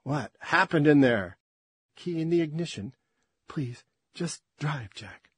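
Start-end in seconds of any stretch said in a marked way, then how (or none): 3.5-5.3 slow plea with a hitch in the voice; catch in voice. Acted. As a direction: let the voice catch on Jack. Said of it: "A hitch in her voice".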